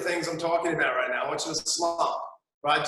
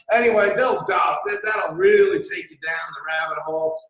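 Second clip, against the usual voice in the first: higher, louder mocking rant; louder sarcastic shouted advice; 5 semitones higher, 4 dB louder than usual. Real, not acted. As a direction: egg them on ironically. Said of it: "sarcastic news binge advice".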